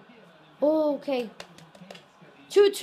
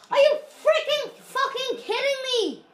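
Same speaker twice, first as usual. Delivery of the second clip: high, loud shout breaking into a laugh; can't believe it, half laughing, half yelling; outraged disbelief; 10 semitones higher, 7 dB louder, faster than usual. Real, not acted. Outraged at game event.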